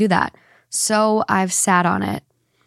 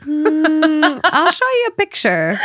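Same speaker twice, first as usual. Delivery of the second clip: laughing through the words; 7 semitones higher, 3 dB louder, slower than usual. Real, not acted. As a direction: speak while cracking up. Laughing while answering about the pink.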